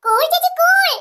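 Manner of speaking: high, playful calming call; teasing. Acted. Little girl to annoyed older sister, teasing. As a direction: tease her to cool down.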